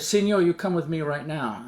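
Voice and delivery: lightly put-on broken English command. Soldier orders hesitant passenger off, in broken English. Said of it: "he talks in broken English".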